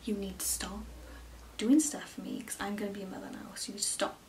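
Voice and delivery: quiet whispered pleading with mum; hushed plea. Retold or imitated. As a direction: whisper it like a gentle telling-off. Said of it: "and I'm like".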